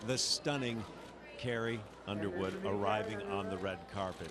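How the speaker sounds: bright, eager red carpet host; gushing red carpet chatter. Acted. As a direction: gush over the arrivals like a TV host.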